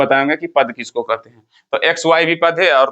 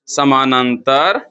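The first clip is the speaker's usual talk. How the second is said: slow dictation; 2 semitones lower, slower than usual. Shown as a demonstration. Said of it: "क्या बोलेंगे?".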